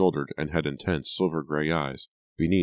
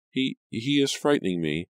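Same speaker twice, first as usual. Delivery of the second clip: frightened stammer; 8 semitones higher than usual. A narrator's reading. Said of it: "Angelica stammered".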